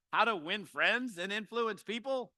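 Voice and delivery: slowed, mock-solemn How to Win Friends and Influence People; facetious title read. Shown as a demonstration. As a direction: say the title slowly with mock gravity. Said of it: "I'm being facetious".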